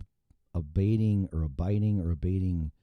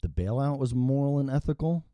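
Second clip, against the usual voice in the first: incredulous, raised-pitch question on ethical; sarcastic disbelief; 4 semitones higher than usual. Real, not acted. Vlogger scoffs at politicians' ethics, sarcastic incredulous question. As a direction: ask it in mock disbelief.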